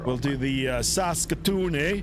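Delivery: Saskatoon drawn out slowly in a thick Canadian accent. Shown as a demonstration. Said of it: "I'll pronounce Saskatoon with a thicker accent".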